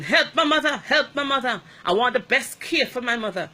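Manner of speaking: loud, high, panicky begging; a relative desperate for help; mimicking a panicked relative; frantic pleading. Panicked family members rushing in.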